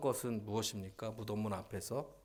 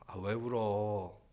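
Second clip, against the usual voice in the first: tender mother. Acted. Preacher as mother soothing her crying baby, tender. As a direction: comfort lovingly, stretching the words. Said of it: "세상 다정하게 말씀하시죠".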